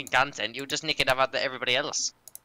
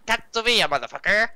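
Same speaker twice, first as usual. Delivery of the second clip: mock shout; 6 semitones higher, 5 dB louder than usual. Mock yelling insult in accent.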